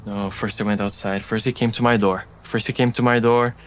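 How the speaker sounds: lightly voiced obsessive, repetitive muttering; agitated rambling woman. Distraught woman recounting who came to her door, fixated rambling. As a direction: loop the phrases as if fixated, mildly agitated.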